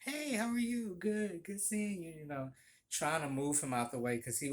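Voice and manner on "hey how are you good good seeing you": higher-pitched, smiling brush-off; polite smiling greeting. Retold or imitated. Barista moving a chatty customer out the way, politely smiling. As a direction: imitate nodding along to move someone on. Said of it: "I just basically smiled and nodded".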